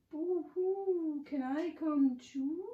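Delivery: high, drawn-out mock wail; boo-hoo like a little ghost; moaning tiny ghost. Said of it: "moans the tiny ghost".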